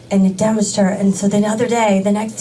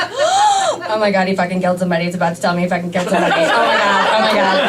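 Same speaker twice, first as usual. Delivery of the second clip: panicked, fast, half-laughing gush; mock panic, laughing through it; 2 semitones lower, faster than usual. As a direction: rush it like sudden panic. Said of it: "I'm like gasps".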